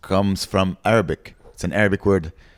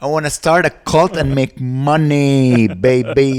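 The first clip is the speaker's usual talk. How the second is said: 1 greedy sellout; 6 semitones higher, 5 dB louder, slower than usual. Retold or imitated. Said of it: "I'm like".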